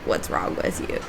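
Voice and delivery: whispered, rude question; quiet mock quote. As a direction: breathe it out like a rude stranger. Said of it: "Bold in its rudeness, just being like".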